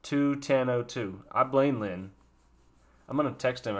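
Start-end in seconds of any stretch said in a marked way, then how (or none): 0.0-1.2 "Two ten oh two" said slowly, each number spaced out; slow repeat. Shown as a demonstration. Checking the timestamp for his viewers, "Two ten oh two" repeated slowly. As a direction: read back "Two ten oh two" slowly and deliberately. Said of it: "Timestamp check".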